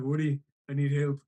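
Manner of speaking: loud, lightly imitated cat calling for help; mock plea from a cartoon cat; Garfield. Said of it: "He's like".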